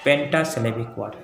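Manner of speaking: pentasyllabic said slowly, every syllable clear; teacher repeating pentasyllabic for the class to note; slow emphasis. Shown as a demonstration. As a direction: lean on pentasyllabic, unhurried. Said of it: "इसको कहते हैं pentasyllabic word".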